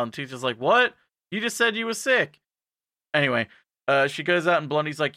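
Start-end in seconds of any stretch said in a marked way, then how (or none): 0.6-2.4 high, incredulous teacher; mock indignation. Teacher to student who was just sick, incredulous. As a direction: protest in high-pitched disbelief.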